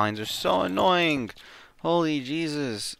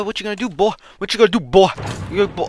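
taunting; 7 semitones higher, 5 dB louder, much faster than usual. Real, not acted. Taunting enemy in game.

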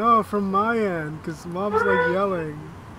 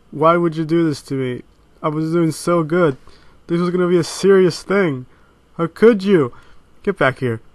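exasperated yelling; 6 dB louder than usual. Real, not acted. Friend ruined serious video.

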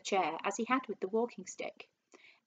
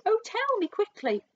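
high, loud, urgent pleading; desperate cry; 13 semitones higher, 5 dB louder than usual. A narrator's reading. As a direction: beg frantically for the answer. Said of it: "she cried".

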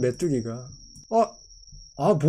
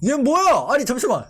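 surprised; 3 semitones higher than usual. Real, not acted. Shocked seeing the Pokémon.

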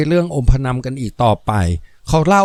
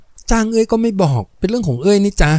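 coy; 7 semitones higher than usual. Acted. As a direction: tease him playfully, playing hard to get. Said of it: "เอื้อยมีจริตขึ้นมาบ้าง". (งอนเล่นอย่างมีจริต เสียงสูงขึ้น)

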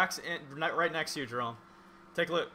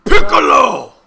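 shout; 3 semitones lower, 16 dB louder, slower than usual. Real, not acted. Shouting out names.

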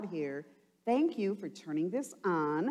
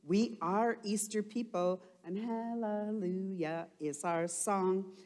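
lightly voiced thought; 4 semitones higher than usual. Teacher voicing the children's thoughts, lightly sung-out. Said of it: "and we think".

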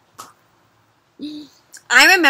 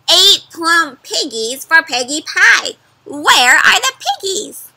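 folksy farmer; 4 semitones higher, 7 dB louder than usual. Acted. Farmer explaining his farm to the witch, loud and folksy. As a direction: play it like a cheerful old farmer.

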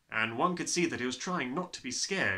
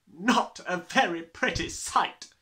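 high, loud, slow disgust; utter distaste; 7 semitones higher, 8 dB louder, slower than usual. A narrator's reading. Headmistress surveying the small children, with utter distaste. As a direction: pronounce it slowly with loud distaste. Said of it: "Her expression was one of utter distaste".

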